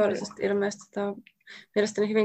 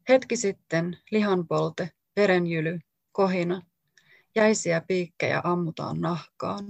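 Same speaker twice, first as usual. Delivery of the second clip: measured, deliberate reading of a poem, each image set apart; poetry reading. Acted. Author reading her own poem aloud to the audience, measured and deliberate. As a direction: read it out like a poet giving a live reading.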